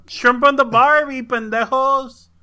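mock Australian accent. Imagined kid mixing two parents' accents, Australian accent. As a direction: ham up an Australian accent, slowing on the slang. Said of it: "with a weird-ass accent".

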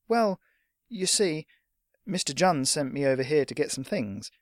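put-on tentative, polite young messenger; a touch of nervous explaining; hesitant boy. Boy explains errand to shopkeeper.

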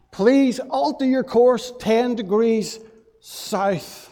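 captain losing patience, mock stern; mildly angry captain. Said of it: "the captain was furious".

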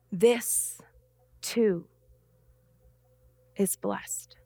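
hushed whispered blessing at the end; fading to a whisper. Real, not acted. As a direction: let it die away to a breath. Closing words of sermon, fading.

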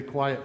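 quiet stretched out, its final t held; stress on quiet. Real, not acted. Telling the congregation about a quiet morning, stress on quiet. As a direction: lean on the word quiet and linger on it. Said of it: "Emphasis on the word quiet".

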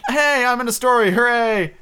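put-on high, loud child's hooray; loud, high-pitched jubilation; gleeful cheering. A narrator's reading. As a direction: whoop like a thrilled little boy. Boy learns he is in story.

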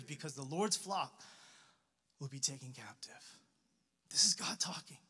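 low and soft, fading to a whisper; hushed gravity. Real, not acted. Pastor reveals God is talking, hushed. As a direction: let the verse sink into a near whisper. Reading God's grief, hushed awe.

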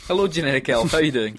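a hammed-up Father Christmas hello; booming mock Santa welcome; Santa greeting. Host greets elf in character.

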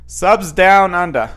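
loud, slow mock-Australian twang; bad Australian accent. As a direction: put on a terrible Australian accent, drawn out. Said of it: "with my horrible accent".

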